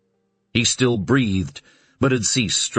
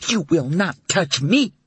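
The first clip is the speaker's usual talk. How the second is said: sobbing rage; 8 semitones higher than usual. Acted. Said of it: "She was sobbing now".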